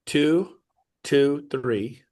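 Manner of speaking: slow, spaced-out digits; dictating. Shown as a demonstration. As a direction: read each number clearly, pausing. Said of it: "Write this down".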